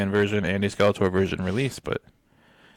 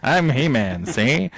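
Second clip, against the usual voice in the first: 1940s newscaster; 5 semitones higher, 4 dB louder, slower than usual. Retold or imitated. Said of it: "newscaster from the forties".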